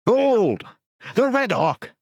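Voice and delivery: high, loud rallying shout; war cry. Acted. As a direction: raise the sword and roar it.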